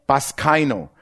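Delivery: Baskaino said slowly, BAS-kai-no, stress on the first syllable; Greek word Baskaino. Shown as a demonstration. Preacher teaches the congregation the Greek word: careful Baskaino. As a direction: spell it out for the notes: Baskaino. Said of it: "wie man spricht".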